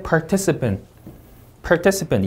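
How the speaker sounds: "participant" with TIC stressed; par-TIC-ipant, "participant" falling after TIC; second-syllable stress. Shown as a demonstration. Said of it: "이음절 강세".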